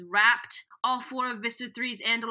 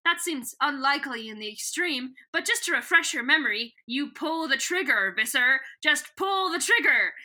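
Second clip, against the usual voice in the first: higher, hammed-up taunting villain; sly villain; 4 semitones higher than usual. Retelling Visser Three taunting Visser One, mock gloating. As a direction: purr it like a gloating alien overlord. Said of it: "Visser Three is like".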